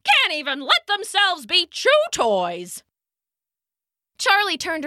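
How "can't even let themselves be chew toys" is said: grumbled. A narrator's reading. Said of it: "Charlie grumbled to himself".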